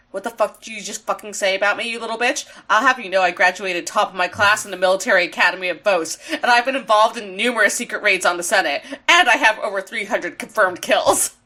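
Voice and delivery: rattled-off indignant tirade; low, fast mock threat; mock boastful rant. Starscream telling off a rival, mock boastful rant.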